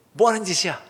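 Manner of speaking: imagined telling-off, moderately heated; angry scolding. Acted. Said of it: "화를 냈겠지만".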